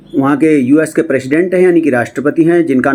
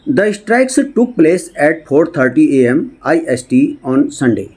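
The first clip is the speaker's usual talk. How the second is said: slow, word-by-word English reading; read-aloud news text; much slower than usual. Shown as a demonstration. Teacher reading a news report to students, slow read-aloud. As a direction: read it out slowly with gaps between phrases.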